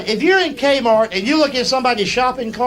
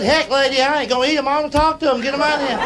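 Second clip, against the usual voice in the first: mock exasperated retort; 6 semitones higher, faster than usual. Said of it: "I said".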